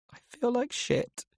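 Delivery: teary, wobbly confession to his sister; high wobbly voice. A narrator's reading. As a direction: voice cracking high and shaky, close to tears. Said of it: "my voice is all high-pitched and wobbly".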